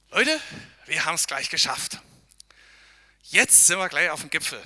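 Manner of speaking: loud call to the group up the trail. Real, not acted. Pastor calling loudly to hikers near the summit. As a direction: call ahead to the hikers to keep going.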